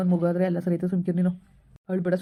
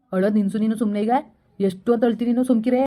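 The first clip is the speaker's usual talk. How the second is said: rising, louder and higher to a sharp shush; building scold; 3 semitones higher, 4 dB louder than usual. Acted. Boyfriend loses patience with crying girlfriend, building scold. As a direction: scold her louder with each line to stop crying.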